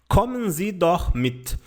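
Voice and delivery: slow, careful German model phrase; slow clear German example; slow example sentence. Shown as a demonstration. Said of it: "Um exemplo de frase é esta daqui".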